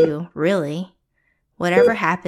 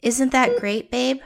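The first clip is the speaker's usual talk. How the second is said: weak voice; 4 semitones higher, 5 dB quieter than usual. Acted.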